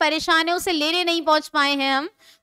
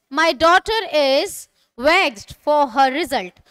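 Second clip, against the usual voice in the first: slow, careful reading for repetition; slow model sentence; slower than usual. Shown as a demonstration. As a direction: read it out slowly for the class. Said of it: "And the last is". (धीमे, साफ़ उच्चारण में)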